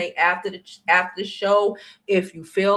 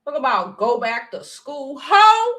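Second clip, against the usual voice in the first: higher, heated ranting; higher, louder angry tirade; 8 semitones higher, 5 dB louder than usual. Real, not acted. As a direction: keep lashing out. Ongoing loud rant.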